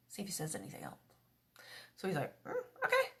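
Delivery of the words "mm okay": put-on young Samuel. Boy Samuel answering the priest.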